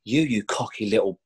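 slow, mock-furious manager; half-acted angry boss; retold angry rant. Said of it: "he went ballistic".

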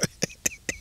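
very high squeaky laugh; squealing laugh. Real, not acted. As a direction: let out a shrieking giggle. Laughs at retold quote.

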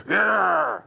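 loud, high booming preacher's yell; Ian Paisley. Retold or imitated. Mucking around for a photographer, booming Paisley impression. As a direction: bellow it like the firebrand Ulster preacher. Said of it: "I pretended to do a kind of Ian Paisley".

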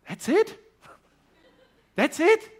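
high, loud disbelieving question; can't believe it's so simple; incredulous. Retold or imitated. Young man hearing the simple secret, incredulous cry.

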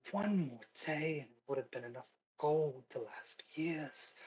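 lightly voiced high-class lady lamenting; a touch of upper-class despair. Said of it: "high-class, uh, voice".

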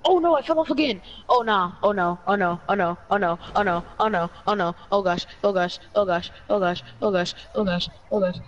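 panicked repeated oh no, oh gosh; terrified gibbering. Real, not acted. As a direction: babble in rising panic. Falling off in game.

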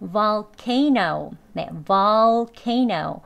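"volcano" very slow, full "vol" then "cay-no"; careful learner pronunciation. Shown as a demonstration. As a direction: stretch each syllable of "volcano". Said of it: "우선 배우는 발음입니다".

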